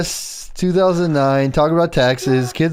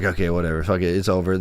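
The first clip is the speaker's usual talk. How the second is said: much lower, softer shrug of a mumble; resigned mumble; 11 semitones lower, 6 dB quieter, much faster than usual. Retold or imitated. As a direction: mutter it off like you've given up. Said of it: "I was like".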